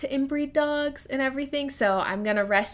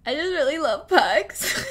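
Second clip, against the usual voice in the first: sheepish enthusiasm; 6 semitones higher, 4 dB louder than usual. Retold or imitated. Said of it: "And I'm like".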